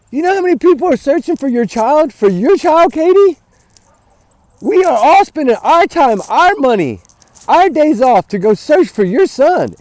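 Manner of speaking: indignant rant, leaning on the key words; mad. Real, not acted. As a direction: tell them off in real anger. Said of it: "my mind is so mad right now".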